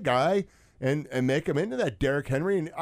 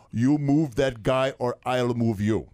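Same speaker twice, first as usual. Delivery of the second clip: put-on Russian accent; slower than usual. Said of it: "like you're doing a Russian accent".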